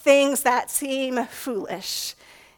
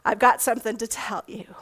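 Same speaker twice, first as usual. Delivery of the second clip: a hint of a nagging mom, dropping to a hush; lightly voiced mom calling her smarty pants over; mild nagging mom voice trailing into a quick whisper; slightly nagging mom; 2 semitones lower than usual. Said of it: "perhaps in a slightly nagging voice".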